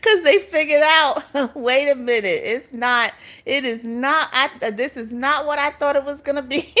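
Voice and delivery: can't stop laughing while explaining; words bubbling through laughter. Real, not acted. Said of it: "I don't mean to laugh".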